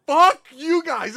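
slow, high angry curse; drawn-out mock-furious yell; retold angry outburst. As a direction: act out snapping at attackers.

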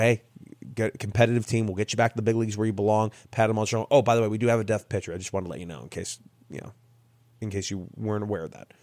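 offhand, hurried aside, voice dropping away; casual undersell. Retold or imitated. Manager breaking news to a player, casual undersell. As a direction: toss it off quickly and low-key. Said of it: "it was just the most normal thing in the world".

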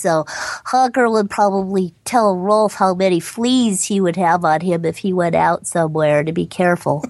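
lightly voiced cartoon kid; a hint of nerdy cartoon duckling; Honker voice. Shown as a demonstration. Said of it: "here's Honker talking to Rolf".

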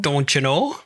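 light mock Wisconsin accent, rising end. Co-host imitates what they all say, mock Wisconsin accent. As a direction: imitate the Upper Midwest accent with a lift at the end. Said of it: "This Wisconsin's way over the top".

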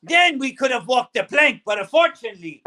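blustering pirate captain. Acted. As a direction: threaten like a stage pirate. Pirate host addressing crew.

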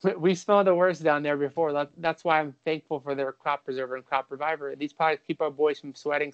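upbeat podcast ad read; host reading a Manscaped sponsor spot, light ad voice. Acted. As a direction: sell the grooming kit to the fellas, breezy and bright.

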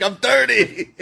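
teasing high squeaky imitation of a friend claiming to be thirty; laughing mock impression of a friend. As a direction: pitch it way up and laugh through it. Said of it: "You're like".

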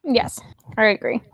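breathy whispered agreement. Real, not acted. Quiet agreement aside.

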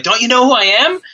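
high, indignant "who I am" with a rising "who"; mock indignant. Podcast host mocking a celebrity's bar outburst, high indignant. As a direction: act out a pompous celebrity demanding respect.

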